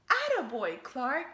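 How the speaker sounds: loud praise; cheering. Acted. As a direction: cheer him on. Teacher praising.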